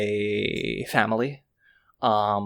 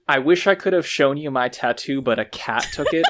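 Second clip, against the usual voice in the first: quoting loudly; 4 semitones higher, 6 dB louder than usual. Retold or imitated. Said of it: "is the wildest sentence I've ever heard".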